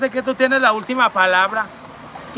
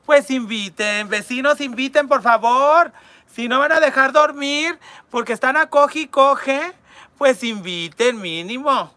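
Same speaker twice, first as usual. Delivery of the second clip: louder and higher mock scolding; scolding the neighbors; 5 semitones higher, 6 dB louder than usual. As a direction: tell off the noisy neighbors. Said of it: "hazme un audio porque mis vecinos". (regaño burlón y fuerte a los vecinos)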